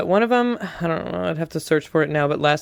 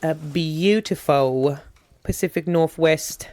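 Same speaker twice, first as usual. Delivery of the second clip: put-on Pacific Northwest accent. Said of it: "That's my Pacific Northwest accent I've been working on".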